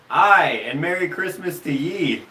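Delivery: imitated Scottish-Irish lilt; thick Scottish-Irish accent. Retelling a nurse's reply to a grandfather, Scottish-Irish accent. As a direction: put on a Scots or Irish brogue. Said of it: "in this accent".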